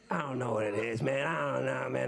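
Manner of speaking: low-pitched imitation of a laid-back buddy; imitating a friend's talk. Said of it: "That's how he talks".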